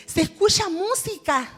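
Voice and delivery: retold amazement. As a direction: exclaim as if puzzled by a sound. Retold exclamation during the operation.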